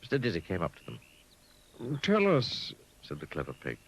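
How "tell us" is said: high pig voice. Acted. Mister Dizzy voice high.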